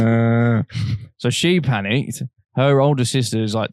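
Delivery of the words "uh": long monotone "uhh"; imitated dazed moan. Recounting being out of it to a friend, dazed droning moan. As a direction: drone a dazed, wordless moan. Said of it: "still making those noises".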